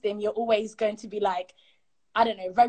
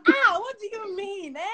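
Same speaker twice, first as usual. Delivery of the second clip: livid mum; 10 semitones higher than usual. Retold or imitated. Mum reacts to halal meat request, livid. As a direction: imitate an outraged mum, pitched way up. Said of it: "she was livid".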